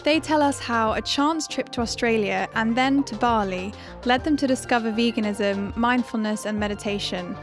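upbeat host intro over music; podcast intro read. Acted. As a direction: read it like a show opener.

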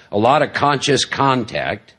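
"conscious contact" spoken slowly and deliberately; stress on conscious contact. Real, not acted. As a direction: lean on each word of "conscious contact". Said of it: "I stress the word conscious contact".

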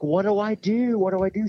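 high panicked fretting. Retold or imitated. Panicked retold thought.

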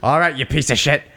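lightly voiced gruff old trainer; a hint of scolding cornerman; Mickey impression. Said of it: "And Mickey's like".

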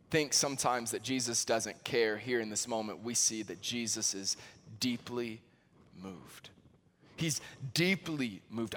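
low and soft, moved barely voiced; hushed. Real, not acted. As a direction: draw listeners in with a near-hush. Hushed build to deeply moved.

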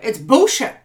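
rejecting the critic's statements firmly; firm calling out. Pretend. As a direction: call it out flatly. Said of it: "It's like".

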